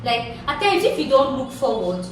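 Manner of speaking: motivational speaker voice; booming motivational speech. Pretend. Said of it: "now let me talk like a motivational speaker".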